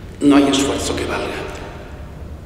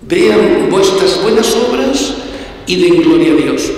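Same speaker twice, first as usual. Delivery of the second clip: slow proclaiming; 4 semitones higher, 3 dB louder, slower than usual. Real, not acted. Preacher proclaims scripture.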